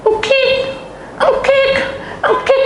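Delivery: high, squeaky imitated wheeze in short bursts; wheezing. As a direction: imitate a chest squeaking with each gasp. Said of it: "buang kik-kiknya". (tiruan napas mengi berbunyi ngik)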